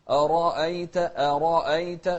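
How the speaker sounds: أرأيت with a heavy ر and light hamza; أرأيت with emphatic ر. Shown as a demonstration. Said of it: "شوف الراء مفخمة".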